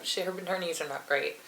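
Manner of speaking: laughing. Real, not acted. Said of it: "I like how I'm laughing when I say that".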